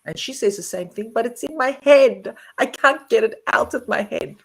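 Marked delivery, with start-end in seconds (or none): 1.2-4.3 imitating mum's insistent complaint, a bit higher and louder; mock exasperated protest; mildly hammed-up helpless complaint; retold protest. Retells mum's worried protest.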